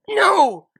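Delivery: high, loud cry out; anguished cry. Acted. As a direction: scream in horror. Scootaloo crying out.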